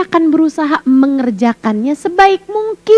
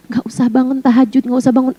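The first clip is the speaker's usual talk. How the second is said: whispering tempter; 3 semitones lower, faster than usual. Retold or imitated. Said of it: "Hati kamu tuh dibisikin".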